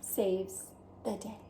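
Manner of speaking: a hint of a vain French snail, chatty; lightly voiced French snail. Snail Escargot chatting with the reader, lightly French. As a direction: play the charming snail talking to the reader.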